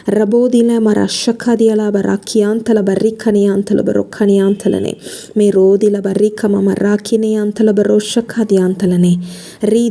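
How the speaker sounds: steady, flowing prayer in tongues; praying in tongues. Real, not acted. Pastor leading the congregation in tongues, fervent steady prayer. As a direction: pour out the syllables in earnest prayer.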